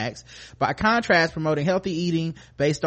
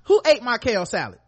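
yelling across the room; 6 semitones higher, 4 dB louder than usual. Pretend. Mock parent yelling.

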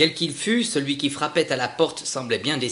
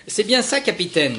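much higher, louder eager chorus; crew in chorus; 9 semitones higher, 6 dB louder than usual. Acted. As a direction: echo the captain like keen sailors. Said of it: "dirent-ils en chœur". (en chœur, voix aiguë et enthousiaste)

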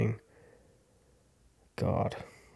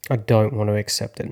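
louder, pushing back; louder refusal; 5 dB louder than usual. Real, not acted. Refusing to accept the loss, louder. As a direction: say it out loud, firmly. Resisting acceptance, second take.

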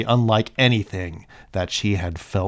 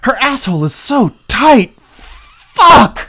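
high shouting cry; 16 dB louder, slower than usual. Acted. Character cries out during scene.

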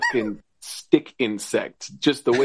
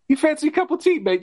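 high, chirpy friendly host voice; sunny mock-friendly greeting; bright cheery host; 14 semitones higher, much faster than usual. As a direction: beam like a cheerful tea server. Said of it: "just the brightest, shiniest".

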